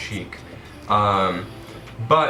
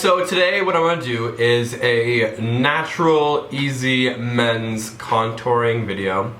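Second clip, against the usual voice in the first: blocked nose from a cold; stuffed up nose. Real, not acted. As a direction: talk through a stuffy nose. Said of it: "Sorry if I sound a little bit stuffed up".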